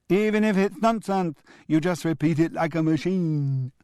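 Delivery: put-on high, triumphant boy's voice; a little boy crowing in glee; crowing child. A narrator's reading. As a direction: Julian crows back at grandad, high and gleeful. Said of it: "crowed Julian".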